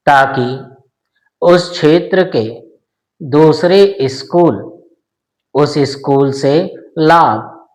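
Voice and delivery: slow, measured phrases with pauses between; dictation reading. Shown as a demonstration. Teacher dictating a passage to shorthand students, dictation reading. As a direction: dictate deliberately, a few words at a time.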